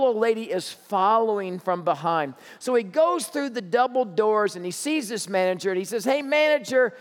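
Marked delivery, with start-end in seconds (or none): 6.0-6.9 put-on higher, slow, incredulous young clerk; a stock boy dragging it out in disbelief to his boss; flustered stock boy. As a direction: clerk complaining to his manager about a crazy customer, higher and slow. Stock boy reports crazy customer.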